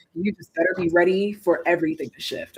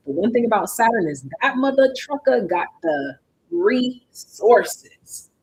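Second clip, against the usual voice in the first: hyped up; 5 semitones higher than usual. Real, not acted. Hyping Saturn's rewards.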